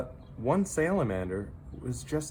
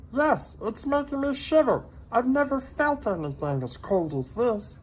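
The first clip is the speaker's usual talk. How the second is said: high little creature voice, gently pitying; a tiny pet breaking hard news kindly; sympathetic salamander voice; 4 dB louder than usual. A narrator's reading. Minton consoling lonely Hector, high sympathetic voice.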